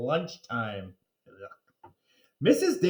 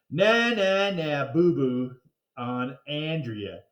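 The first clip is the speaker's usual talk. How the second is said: taunting; slower than usual. Acted. Kid taunting Andrea.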